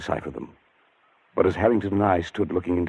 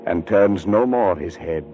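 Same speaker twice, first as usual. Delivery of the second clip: slow, hushed recital of eerie verse; poem read aloud; slower than usual. Acted. Man alone at night reciting Ancient Mariner verse, slow and ominous. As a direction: read the lines slowly, letting the dread creep in. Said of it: "read them aloud".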